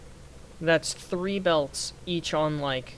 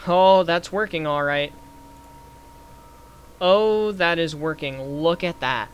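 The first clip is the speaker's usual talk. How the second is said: impressed amazement; 7 dB louder than usual. Real, not acted. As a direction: marvel at it working. Sees the build working well.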